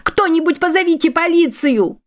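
высокий пронзительный крик о помощи; зови полицию во весь голос, в панике; панический крик. Acted. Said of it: "закричала она". (высокий панический крик о помощи)

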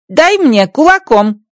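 high, slow alien voice; Rocky asking for a fist bump his own way; Rocky's garbled phrase. Acted. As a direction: proudly get the phrase wrong.

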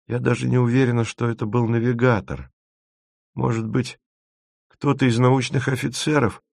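small, high voice, thinking aloud; weak, hesitant Masha. Acted. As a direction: speak up high and tentative, like an unwell young crew member. Narrator voices hesitant sickly Masha.

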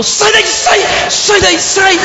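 high urgent yell to get out now; alarmed shout. Retold or imitated. Friend on the phone yells at him to flee, high alarmed shout. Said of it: "Ele falou".

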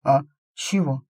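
drowsy half-awake mumble; sleepy mumble. Acted. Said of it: "сонно пробормотал он".

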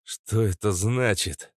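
slow, slightly worried question; understated worry, drawn out; mild anxiety. Acted. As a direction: ask with a touch of alarm. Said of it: "с тревогой в голосе спросил я".

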